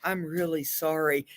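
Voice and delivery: fake-meek sorry; mock passive-aggressive. Shown as a demonstration. Counselor demos passive aggressive talk, falsely meek. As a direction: sound sorry but don't mean it. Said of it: "Passive aggressive".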